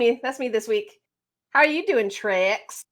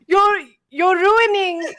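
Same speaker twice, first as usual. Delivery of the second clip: laughing through the words; cracking up mid-bit; breaking character giggling; 4 semitones higher than usual. Real, not acted. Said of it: "I can't do it with a straight face".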